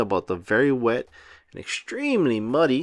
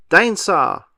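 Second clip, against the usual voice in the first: put-on crying toddler wail; 4 semitones higher, 6 dB louder than usual. A narrator's reading. George cries for toy.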